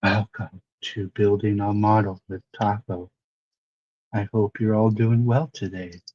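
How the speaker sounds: breathy, hushed ASMR half-whisper, all breath. Trying out ASMR for a model-building video, in a breathy ASMR half-whisper. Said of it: "breathy whispers".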